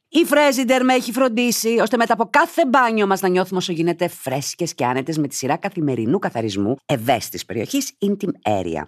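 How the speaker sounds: lively, emphatic ad read; upbeat podcast sponsor plug. Real, not acted. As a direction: sell it brightly to the listeners. Reads a sponsor message.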